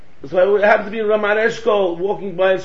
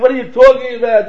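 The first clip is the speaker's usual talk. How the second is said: raised, indignant retort; mock scream back; 3 semitones higher, 5 dB louder, faster than usual. Old man screaming back at his friend, raised voice. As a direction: imitate an arguer yelling back. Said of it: "Screaming back".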